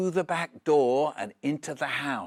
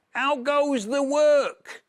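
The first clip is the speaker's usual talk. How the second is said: high, slow, loud bossy call; farmer calling; 11 semitones higher, 6 dB louder, slower than usual. Acted. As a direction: bellow it down like a lazy farmer. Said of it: "called the farmer".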